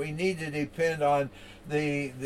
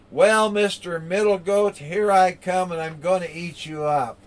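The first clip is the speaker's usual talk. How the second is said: higher, louder troll bellow, fading; dopey cartoon bellow; 4 semitones higher, 5 dB louder than usual. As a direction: boom the threat, then let it sink. Troll threatens the middle goat.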